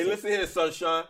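lightly British tough-guy voice; mock a British heel; British accent. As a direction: loose British wrestler impression. British wrestler impression.

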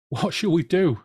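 acted high-pitched wail, no real sobs; mock-tearful plea from an official; sobbing. A narrator's reading. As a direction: cry it out high, in despair. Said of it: "sobbed a government official".

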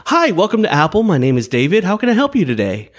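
high, bright customer service greeting; tech support advisor voice. Shown as a demonstration. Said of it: "here's my tech support advisor voice".

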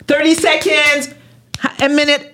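high, slow press-agent countdown; publicist countdown. Retold or imitated. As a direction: tick off the seconds like a press handler. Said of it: "relationnistes de presse qui te disent".

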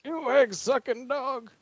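put-on slow, drawn-out old-school promo growl; hammed-up slow heel insult; mock wrestling promo. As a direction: ham it up like a Southern wrestler cutting a promo.

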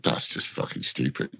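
under-the-breath whisper of frustration; whispered curse. Retold or imitated. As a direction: hiss it as an aside nobody should hear. Muttered frustration during the take.

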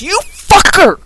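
high, hammed-up falling cry; falling Balrog. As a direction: yell as you drop. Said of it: "He goes".

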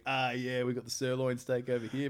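a smug trickster gloating to his mates; gloating titan. Retold or imitated. Titan gloating in retold myth.

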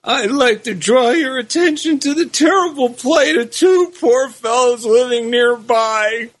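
pleading, voice cracking with emotion; choked-up plea for two poor souls; voice breaking with emotion. Acted. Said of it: "he said in a voice breaking with emotion".

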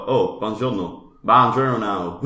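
badly accented Italian greeting; Brad Pitt. Likening it to Inglourious Basterds, badly accented Italian. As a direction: attempt Italian with a clumsy American accent. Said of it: "the bump with Brad Pitt, where he's like".

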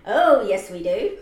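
loud pantomime reply; panto shout. Acted. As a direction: belt it back at the crowd. Panto call and response.

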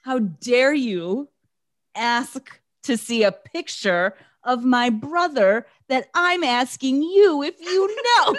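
slow, high, affronted indignation; indignant outrage. Retold or imitated. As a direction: act out offended disbelief. Retelling Megan's indignant outburst.

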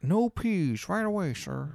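a lightly voiced eager waiter.

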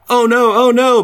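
high, loud mock panic; imitating someone yelling from downstairs; retold panicked yelling. Roommate panicking over flooding toilet, mock yelling. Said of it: "while they're yelling".

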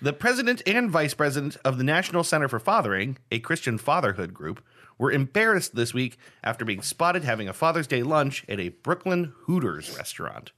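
measured, emphatic news-reader delivery; mock news read. Host reading a game story to player, newsreader style. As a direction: read it out like a headline item.

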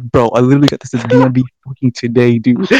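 loud, exasperated retold protest; indignant, insisting on being believed; heated. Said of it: "I got heated. I'm like".

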